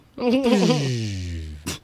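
long falling power-down sound; slow mock shutdown noise. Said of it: "Keith's powered down".

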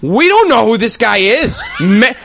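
high, loud, slow mock kid voice with laughter; hammed-up shrieking children; mocking kids shouting. Kids mocking the chaperone in the supermarket, high mock shout. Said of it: "they start to shout".

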